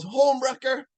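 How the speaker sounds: high-pitched mock yell; retold yell. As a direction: hurl it as an accusation. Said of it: "shoots her head off and yells".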